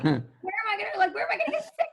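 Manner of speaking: very high, loud squeal of a plea; mock panic. Pregnant woman needing somewhere to be sick, mock panic. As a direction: shoot the voice way up in playful desperation. Acted desperate question to producer.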